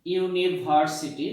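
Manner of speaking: ইউনিভার্সিটি said slowly, each syllable clear; slow teaching demo. Shown as a demonstration. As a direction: spell out ইউনিভার্সিটি slowly for the class. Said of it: "ঠিক তেমনি ইউনিভার্সিটি". (ধীরে ধীরে স্পষ্ট উচ্চারণে ইউনিভার্সিটি)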